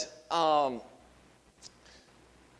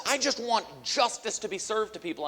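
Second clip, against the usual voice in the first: resentful attitude; 6 semitones higher than usual. Retold or imitated. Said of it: "and that's your attitude".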